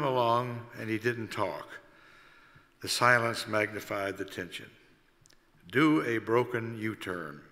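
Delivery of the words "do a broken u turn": slow, lightly raspy order. Acted. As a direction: rasp it out slowly like a gruff boss. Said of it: "he rasped".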